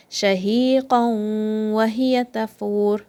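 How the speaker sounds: Shahiqan wa hiya tafur slowly with sounds merged; merged slow recitation. Shown as a demonstration. Teacher models idgham slowly for students. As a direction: glide the sounds together in idgham. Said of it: "merge these sounds together".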